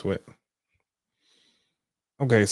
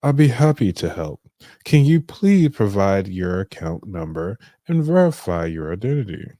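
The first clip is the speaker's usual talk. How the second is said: a lightly lowered deep-voiced guy; deep voice receptionist; 4 dB louder than usual. Receptionist asking the caller for his account, mock deep voice. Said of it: "get a deep voice guy for the receptionist".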